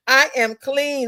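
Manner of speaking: lightly mimicked slow, measured declaration; slow it down, gently mimicking her; mock quote. Streamer mimicking a woman's video, mock quote.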